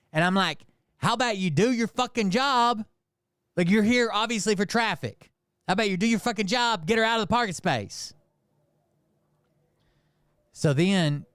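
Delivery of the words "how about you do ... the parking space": high-pitched indignant retort; retold angry telling-off, pitched well up; pissed off. Pissed-off bystander telling a cop to do his job, angry. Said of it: "I was so fucking pissed".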